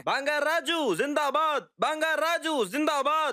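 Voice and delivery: high, slow rally chant; mock slogan. Uncle cheering the rival candidate, slow high mock chant. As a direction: cheer his name like a crowd.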